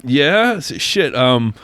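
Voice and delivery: comic's voice slipping. Retold or imitated. Retelling a comic's bank call bit, mildly acted. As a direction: lightly act a comic caught out of his voice. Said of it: "he's doing a voice too".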